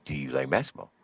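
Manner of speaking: low, soft, unbothered question; soft calm. Retold or imitated. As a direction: ask it gently, almost bored. Inmate repeats softly.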